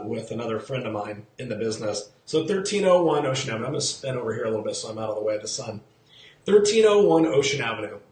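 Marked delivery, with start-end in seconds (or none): 6.5-8.0 firm emphatic address. Shown as a demonstration.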